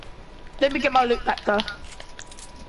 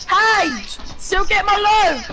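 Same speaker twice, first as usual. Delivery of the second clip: raised voice calling out; 6 semitones higher, slower than usual. Real, not acted. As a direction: call out to a friend. Calling out to friend.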